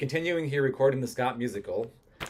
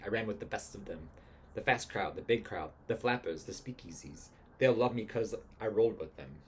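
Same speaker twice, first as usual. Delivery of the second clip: lightly voiced 1920s gangster; a hint of mobster swagger; twenties gangster. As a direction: play a mild old-time gangster. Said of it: "becomes the gangster".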